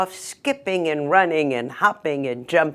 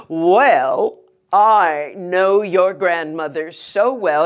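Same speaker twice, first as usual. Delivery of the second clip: a lightly voiced sly wolf, sweet-talking; hint of a scheming wolf's voice; 2 semitones higher than usual. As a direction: coax her like a smooth-talking wolf. Wolf voiced in told story.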